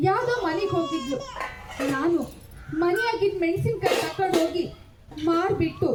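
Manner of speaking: confessing through tears, rising to a cry; tearful confession. Acted. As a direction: break into a cry on the last words. Malli confesses hiding money.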